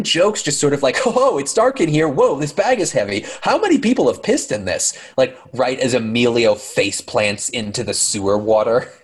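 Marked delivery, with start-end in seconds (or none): 1.0-5.0 mocking goofy voice. Mocking joking husband in sewer.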